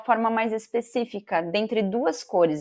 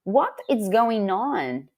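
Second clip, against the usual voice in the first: slow example; much slower than usual. Shown as a demonstration.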